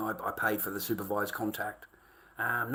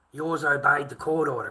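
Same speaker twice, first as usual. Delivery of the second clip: angry; 3 semitones higher, 5 dB louder than usual. Real, not acted. Confronting a viewer about custody.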